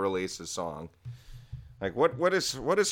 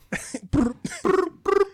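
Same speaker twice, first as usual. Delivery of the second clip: imitated gun sound; 7 dB louder than usual. Imitates rapper's gun-sound ad-lib.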